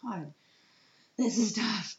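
breathy whisper, choked up; overwhelmed mom whispering; whispered despair. Retold or imitated. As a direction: whisper it to yourself. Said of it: "'cause I'm like".

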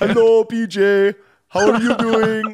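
high, loud, slow squeaky greeting; Ilhan Omar impression. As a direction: squeak it out like a rubber duck. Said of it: "the voice is just too much for me".

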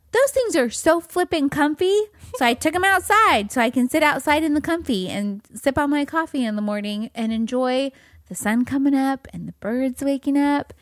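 light, sing-song dreamy princess lilt; Disney princess voice. Acted. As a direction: gush like a cartoon princess. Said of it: "Why do you sound like a Disney princess?".

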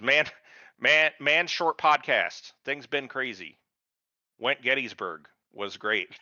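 lightly voiced caveman letter; a touch of caveman, words dragged; clipped caveman reading. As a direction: read it like a slow caveman. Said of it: "I'm not gonna read it like that".

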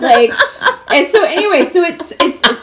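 put-on high, bubbly Valley Girl voice; Rich Valley Girl voice. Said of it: "I like your Rich Valley Girl voice".

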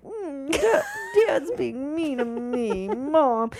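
put-on slow, whiny little-kid complaint; little kid whining. Grown daughter mimicking herself as a sulky child. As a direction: tattle to mom like a sulky child. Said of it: "I felt like a little kid".

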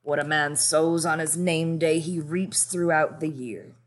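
flat, indifferent tone. Acted. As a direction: say it flatly, not caring. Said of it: "His voice was flat".

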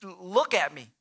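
low-pitched sarcastic remark; understated, incredulous jab. Acted. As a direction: point out the obvious with mild sarcasm. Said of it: "maybe that's the sarcastic tone".

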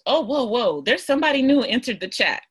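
like a new voice just popped into your head; mock surprise. Voicing her surprised inner reaction.

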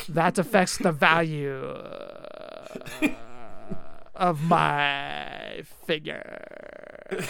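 slow, drawn-out mock whine of a fussy collector. Mocking collectors to his co-host, a slow lightly put-on whine. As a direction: lightly send up the value-obsessed collector. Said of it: "That's how they talk".

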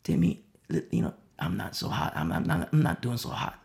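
put-on a troubled young man admits his struggles to his pastor; Timothy opening up. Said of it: "there's sincerity behind it".

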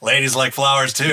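lightly voiced actor impression; Bruce Campbell impression. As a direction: play the actor with a light touch. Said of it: "that's a good impression".

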